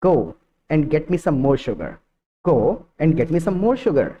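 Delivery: very slow, word by word for repeating; slow model sentence. Shown as a demonstration. Teacher modelling a sentence to repeat, very slow. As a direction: give learners time to copy each word. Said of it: "I hope कि adopt किया होगा आपने".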